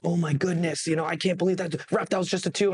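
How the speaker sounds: a hint of an outraged fan; lightly mock the complaint; imitating upset fans. To the listener, imitating fans disputing the ref, lightly outraged. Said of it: "I'll even show you".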